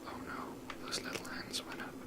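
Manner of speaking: ordinary talk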